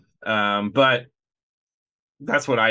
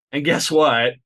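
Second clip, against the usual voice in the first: mock taunt; 3 semitones higher, 4 dB louder than usual.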